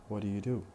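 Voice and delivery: "What do you do?" run together, first do and you weak; connected speech. Shown as a demonstration. Teacher shows how the question is pronounced, in connected speech. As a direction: unstress the middle of "What do you do?". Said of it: "would be pronounced as this".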